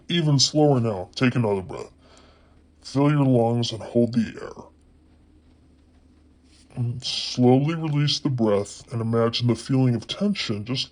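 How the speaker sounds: unhurried relaxation-guide voice with long pauses; guided relaxation. Acted. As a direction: lead them gently through breathing, leaving space. Leads a relaxation exercise.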